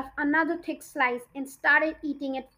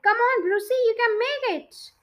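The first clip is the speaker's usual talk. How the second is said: higher cheering call; shouted cheer; 8 semitones higher than usual. A narrator's reading. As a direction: egg him on from the crowd. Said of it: "Suddenly someone shouted".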